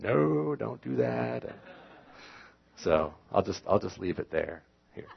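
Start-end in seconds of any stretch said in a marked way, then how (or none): 0.0-1.4 Jenna's reply. Retold or imitated. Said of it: "Jenna said".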